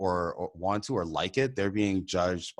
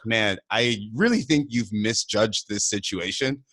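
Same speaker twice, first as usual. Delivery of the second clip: laughing retort. Retold or imitated. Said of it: "I was like".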